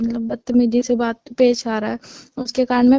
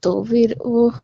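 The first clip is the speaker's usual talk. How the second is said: crying on the phone; 2 semitones lower, slower than usual. Real, not acted. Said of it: "रो मत".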